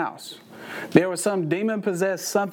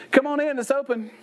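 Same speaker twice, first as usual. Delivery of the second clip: higher-pitched talking bird voice; lightly voiced bird, pitched up; 6 semitones higher than usual. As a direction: call out like a pet bird. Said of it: "And the bird says".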